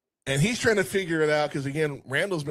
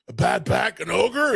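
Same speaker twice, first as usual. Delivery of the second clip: high, loud fake offended ogre; mock indignant; 7 semitones higher, 5 dB louder than usual. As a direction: act offended at the idea. Ogre denies bad back.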